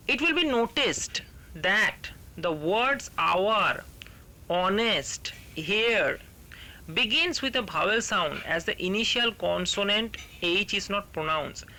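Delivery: very slow textbook reading; slow dictation reading; reading the rule aloud. Shown as a demonstration. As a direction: drag out each word for the class.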